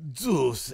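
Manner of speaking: "Juice" said as "Dyoos", starting with a D sound; imitating Andrade's Juice. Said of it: "He says it like it's D E U".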